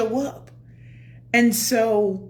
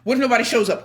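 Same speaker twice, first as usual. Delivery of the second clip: worried self; much faster than usual. Retold or imitated. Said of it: "I'm like".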